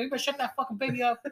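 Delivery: mock-threatening warning in a put-on voice; hammed-up angry order to the baby's parent; retold snap. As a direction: replay the moment you snapped at them. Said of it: "I snapped".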